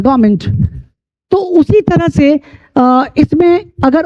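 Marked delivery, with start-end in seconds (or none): 0.0-0.4 "गवर्नमेंट" cut down to GAA-ment; silent letters. Shown as a demonstration. English teacher sums up the word for learners, silent letters. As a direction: say "गवर्नमेंट" with no R or first N. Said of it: "इन silent है पहले से".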